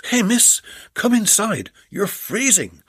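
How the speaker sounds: a kindly man ushering her in; Jed's voice. Acted.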